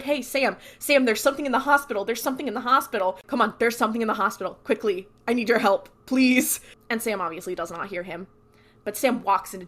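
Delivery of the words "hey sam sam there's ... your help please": fast, hurried retold begging; mock urgent plea. Dean pleading with Sam about the hospital, fast and urgent. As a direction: rush it like no one can hear you.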